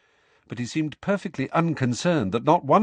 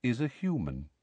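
soft, plain statement; simply; 7 dB quieter than usual. A narrator's reading. Centaur cutting Parvati off, softly and simply. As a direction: say it simply, no emphasis. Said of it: "said Firenze simply".

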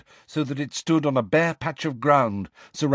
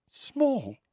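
startled echo. A narrator's reading. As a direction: echo it back in disbelief. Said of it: "said Hermione".

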